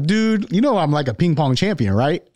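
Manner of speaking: a mild mock of Ronnie bragging he's a champ; Ronnie Coleman impression. Ronnie telling his friend he's a ping pong champion, lightly imitated. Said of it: "my Ronnie Coleman accent".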